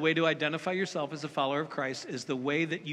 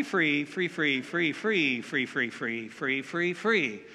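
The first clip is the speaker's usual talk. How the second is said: mimicking an ad; 5 semitones lower, slower than usual. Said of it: "TurboTax commercial when it's all free".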